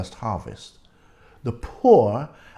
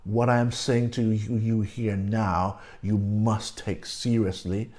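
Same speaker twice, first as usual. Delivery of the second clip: measured, lightly emphatic voice of authority; emphatic stating; 3 semitones lower than usual. Acted. Preacher voices God commanding his people, mildly emphatic. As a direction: state it deliberately, phrase by phrase. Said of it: "he is emphatically stating".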